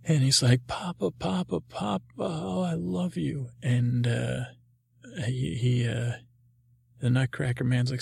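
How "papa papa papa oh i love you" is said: high, excited little dog crying Papa; Scrappy's voice. Acted. Puppy reunited with his papa, high and overjoyed.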